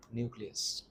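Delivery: ordinary talk, nothing marked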